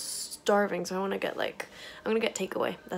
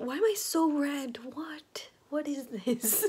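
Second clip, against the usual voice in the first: breathy late-night whisper; 5 semitones higher, 5 dB quieter than usual. Real, not acted. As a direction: whisper it to yourself, puzzled.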